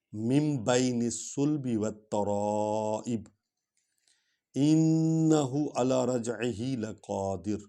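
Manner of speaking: melodic tilawat; Quran recitation. Acted. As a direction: recite the verses with tajweed.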